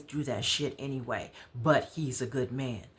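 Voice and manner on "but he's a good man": ordinary delivery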